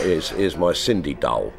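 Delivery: put-on East End London accent on a child's phrase; broad East End London vowels. Shown as a demonstration. Comedian recalling East End talk about a doll, in East End accent. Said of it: "because in the East End it was".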